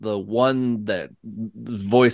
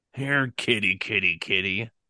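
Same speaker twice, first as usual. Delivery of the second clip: threatening, sinister, menacing voice. Narrating a scene, a voice calls out from behind the listener: menacing voice. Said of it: "you hear this almost menacing kind of voice".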